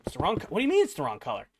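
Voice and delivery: quick, stumbling echo in disbelief; retold incredulous question, thrown straight back; baffled. Baffled echo of customer's complaint.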